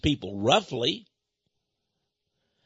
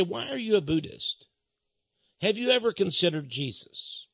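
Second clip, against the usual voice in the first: softer, gentle inquiring question; kindly asking; 3 semitones higher, 5 dB quieter than usual. Retold or imitated. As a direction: ask it kindly, like an invitation. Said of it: "I may very kindly say".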